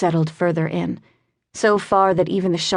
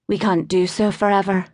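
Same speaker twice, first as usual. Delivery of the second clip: put-on Welsh accent; 2 semitones higher than usual. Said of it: "in her sing-song Welsh voice".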